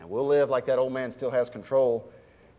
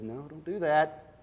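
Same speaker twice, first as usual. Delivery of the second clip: slow, measured voice of God gently forbidding; lightly voiced God saying no, unhurried; 8 dB quieter than usual. Preacher voicing God warning a spender, slow and measured. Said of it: "God says".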